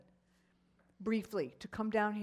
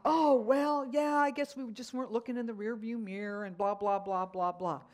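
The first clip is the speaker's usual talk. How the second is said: imitated defused driver. Other driver after the apology, lightly imitated backing down. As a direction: lightly mimic a man calming down. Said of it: "Diffused him".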